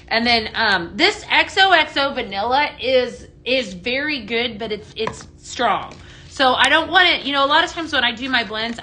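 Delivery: normal talking voice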